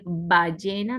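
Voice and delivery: "ballena" with a lip B; B without vibration. Shown as a demonstration. Teacher contrasting B with V, lip B in "ballena". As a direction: start "ballena" on a firm two-lip b. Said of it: "La B de boca no vibra".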